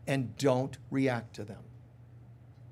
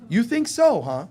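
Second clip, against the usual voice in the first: mocking ego; 4 dB louder than usual. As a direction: taunt like a smug ego. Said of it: "It goes".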